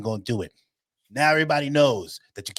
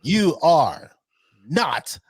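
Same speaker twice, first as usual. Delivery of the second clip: mock host, slow and louder; Maury verdict; 6 semitones higher, 5 dB louder, slower than usual. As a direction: drag out the verdict like a show host. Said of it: "retelling Maury verdict".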